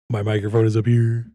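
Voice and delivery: loud, low announcement straight into the microphone; right into the mic. Shown as a demonstration. Repeats it into the microphone.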